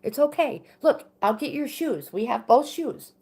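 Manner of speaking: put-on high, reassuring talk to a little kid; imitated calming mom. Mother calming her tearful son, high reassuring voice. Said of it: "I get him calmed down".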